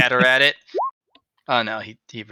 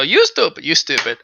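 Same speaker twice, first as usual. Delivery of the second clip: put-on childish insult; 3 semitones higher, 4 dB louder than usual. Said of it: "No, you go".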